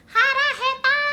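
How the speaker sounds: high, loud squeaky cartoon Japanese; Momonga voice. Streamer quotes Momonga's hungry line in a squeaky voice. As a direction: squeak it like a cute anime creature. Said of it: "Momonga gitu ngomongnya".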